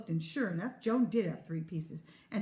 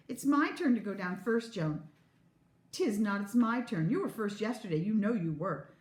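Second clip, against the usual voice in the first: put-on quarreling child; 3 semitones higher, 3 dB louder than usual. Children quarrel over turns.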